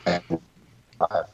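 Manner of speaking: choppy call audio; words dropping out on a call; bad connection. Real, not acted. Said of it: "He's breaking up".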